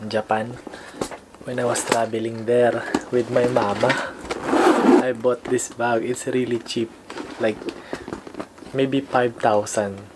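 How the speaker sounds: put-on Filipino-accented English, p for f and b for v; heavy Filipino English. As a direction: present it like a vlogger with a thick Filipino accent. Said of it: "want me to speak like this".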